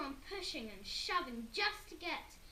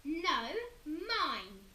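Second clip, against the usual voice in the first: loud shriek; Henry shrieking back; 4 semitones higher, 7 dB louder than usual. A narrator's reading. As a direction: shriek it's yours. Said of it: "shrieked Henry".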